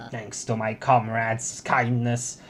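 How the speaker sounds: slow, deliberate heroic declaration; a hint of a stage hero; triumphant rebel speech. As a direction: draw out each phrase, lifting toward the end.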